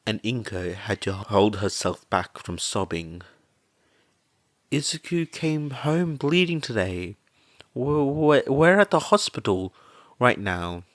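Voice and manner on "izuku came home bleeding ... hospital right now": stammering through tears, higher and louder; a mother barely getting the words out; choked-up report, pitched higher; tearful. A narrator's reading. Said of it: "as she wiped away tears".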